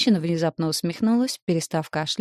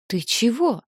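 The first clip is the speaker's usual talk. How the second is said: put-on much higher, startled girl's voice; almost horrified; 6 semitones higher, slower than usual. A narrator's reading. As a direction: ask in near horror. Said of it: "почти в ужасе спросила Ника".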